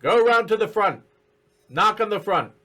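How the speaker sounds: high, snappy goblin orders; bossy little goblin voice. Acted. Goblin answering through door.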